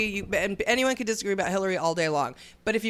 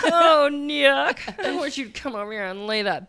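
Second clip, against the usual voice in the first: laughing swooning coo; slower than usual. Acted.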